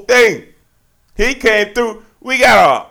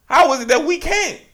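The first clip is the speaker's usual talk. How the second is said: bewildered quote; 9 semitones higher than usual. Retold or imitated. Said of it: "I'm just looking around, like".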